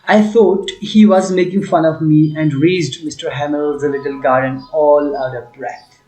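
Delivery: slow, deliberate read-aloud of the English passage. Shown as a demonstration. Teacher reading the story to students, slow and clear. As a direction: read it out slowly for the class.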